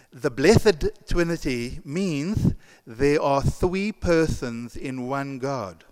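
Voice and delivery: put-on slow lisping little girl's voice, "persons in one God" said as "persons in one Kod"; a small girl who cannot quite say her words; speech impediment. A little girl answers the priest with a speech impediment. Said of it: "by her speech impediment".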